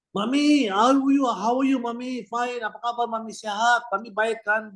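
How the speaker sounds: put-on calling out to a ninety-year-old; cheerful greeting to an old mother. Greeting elderly mother on video call.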